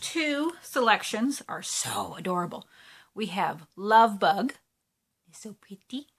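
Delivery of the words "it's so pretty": breathy whisper of delight; whispering in awe. Real, not acted. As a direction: whisper it like it's too pretty to say aloud. Admiring new needle minder.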